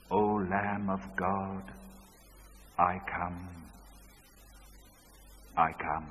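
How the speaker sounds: low, soft and slow; a touch of the broken father; hushed surrender. Retold or imitated. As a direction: let it fall away in surrender.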